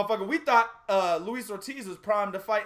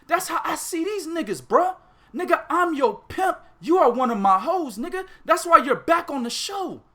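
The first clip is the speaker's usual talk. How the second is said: hyped rant; 6 semitones higher than usual. Real, not acted. Pimp rant.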